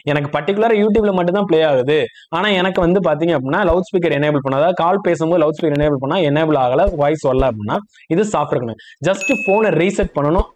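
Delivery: normal talking voice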